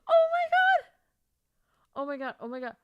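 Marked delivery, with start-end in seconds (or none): 0.1-0.8 very high, loud squeal; overjoyed shriek. Real, not acted. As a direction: shriek it, overwhelmed with joy. Overwhelmed by happy book news.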